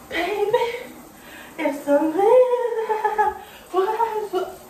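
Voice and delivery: high, loud, drawn-out sass at nobody; mock fight. Pranking siblings by fake-arguing an imaginary friend, high sass. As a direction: scold the empty air, dragging it out.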